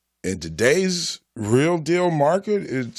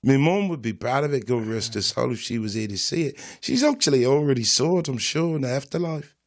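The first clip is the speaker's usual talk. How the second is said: London street accent, put on; mock British accent. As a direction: talk like a British road man. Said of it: "I don't know if I can stop talking like this".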